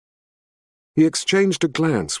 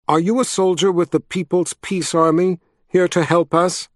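higher-pitched voice for a woman; woman's voice; 6 semitones higher than usual. A narrator's reading. Woman behind the counter asks travelers for help, higher woman's voice. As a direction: lift the pitch well up for her question. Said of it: "came a woman's voice from behind the counter".

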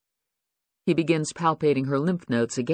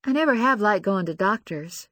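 put-on nervous young woman; 7 semitones higher than usual. Lucy voiced, nervous.

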